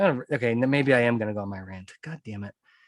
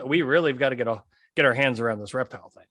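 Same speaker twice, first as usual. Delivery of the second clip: mocking the CEO; faster than usual. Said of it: "this guy comes".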